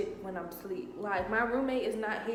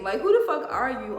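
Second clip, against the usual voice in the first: loud, scornful demand; angry yelling; 8 dB louder than usual. Retold or imitated. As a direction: bark it at him. Cussing out the boyfriend.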